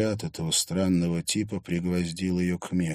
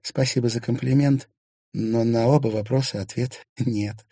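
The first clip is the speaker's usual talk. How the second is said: lightly amused, slightly raised voice; amused laughing reply; 5 semitones higher, 4 dB louder than usual. A narrator's reading. Woman turns down a compliment's assumptions, mildly amused. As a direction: answer with a touch of laughter. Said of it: "рассмеялась Дагни".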